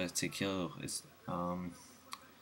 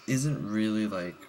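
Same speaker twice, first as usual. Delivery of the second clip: hiccups; 2 semitones higher, 4 dB louder than usual. Real, not acted. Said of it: "excuse me, I have the hiccups".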